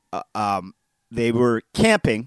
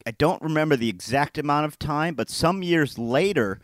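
ordinary delivery

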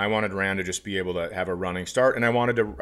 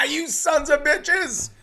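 much higher, slow gleeful yell; triumphant shout; slower than usual. Acted. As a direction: bellow it like a victory cry. Mock triumphant rant.

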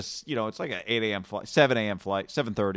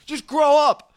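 much higher, louder imitation of a passenger; mock outraged yell; 14 semitones higher, 8 dB louder, slower than usual. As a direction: shout it like a quarrelling passenger. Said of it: "the guy with the accent".

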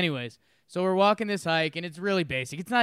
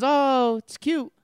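higher, louder "oh" in mock delight; imitated cooing; 9 semitones higher, 3 dB louder, much slower than usual. Retelling his companion spotting a baby bear, imitated cooing. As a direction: coo it, imitating her. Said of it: "And she goes".

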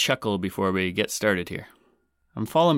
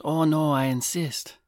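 high, drawn-out mock woman's voice; slow, high-pitched courtesy; insisting polite woman; 6 semitones higher, slower than usual. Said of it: "And the woman goes".

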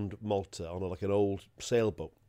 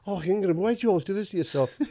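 higher, pleading, near tears; wife near tears; 10 semitones higher, 5 dB louder than usual. Retold or imitated. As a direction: plead with him, on the verge of crying. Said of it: "his wife is almost in tears".

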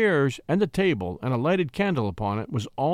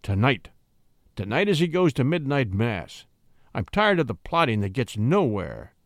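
controlled violence; 2 semitones lower than usual. Acted. Captain urging the plotters at table, controlled fury. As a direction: menace held on a tight rein. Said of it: "said with controlled violence".

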